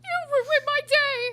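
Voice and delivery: high, loud, slow outraged shout; mock outraged yell. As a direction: wail it like your day is ruined. Voicing the angry employee.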